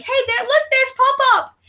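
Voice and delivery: high, put-on sing-song voice; pointing him out. Mom pointing out grandpa to her daughter, high sing-song. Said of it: "I'm like".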